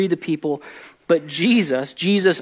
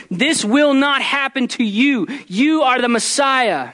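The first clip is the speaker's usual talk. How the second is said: mock upset rebuke; 8 semitones higher than usual. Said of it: "He's angry".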